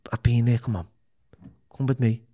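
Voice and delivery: breathy whisper of an invitation. Retold or imitated. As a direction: lean in and whisper it. Inviting a struggling addict along.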